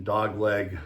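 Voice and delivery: ordinary talk, nothing marked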